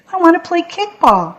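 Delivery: put-on high-pitched child's insistence; insistent plea. A narrator's reading. Ron to the kids shutting him out, insistent. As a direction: push the demand up high. Shut-out boy repeats his demand.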